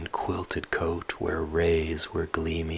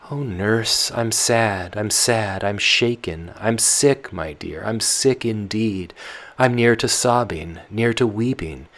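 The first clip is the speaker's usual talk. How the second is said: put-on loud, restless girl pleading with her nurse; Tatiana, sleepless and pleading; young Tatiana; 5 semitones higher, 6 dB louder than usual. Tatiana confesses her distress.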